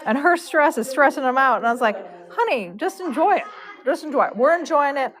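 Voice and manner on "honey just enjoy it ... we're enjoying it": higher, lilting retold reassurance; coaxing reassurance. Braider calming the stressed horse owner, coaxing. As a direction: gently coax a worrier, voice pitched up.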